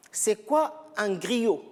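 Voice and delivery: slow, clearly spaced out question; slow teacher question. Shown as a demonstration. Teacher slowly asks students what a griot is. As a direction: let "c'est quoi un griot?" hang, word by word, slowly. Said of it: "Regardez bien la présentation".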